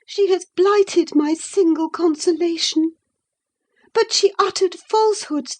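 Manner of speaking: put-on a girl wounded and pleading; hurt, tearful girl. Isabella alone, lamenting to Nelly.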